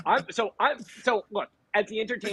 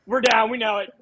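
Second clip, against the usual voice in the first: frat guys; 8 dB louder than usual. Retold or imitated. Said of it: "they would have been like".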